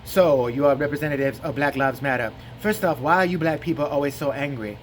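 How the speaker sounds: lightly voiced drowsy interviewer; a slurred, disinterested question; Jesse Lee Peterson. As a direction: sound half asleep as you ask. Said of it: "I think he's got narcolepsy".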